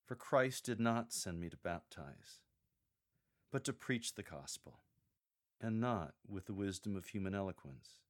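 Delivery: sincere and humble; heartfelt. Shown as a demonstration. Paul admitting he lacks eloquence, with a humble heartfelt tone. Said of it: "Then a heartfelt close".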